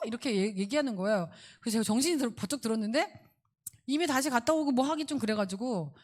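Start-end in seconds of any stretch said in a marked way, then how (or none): none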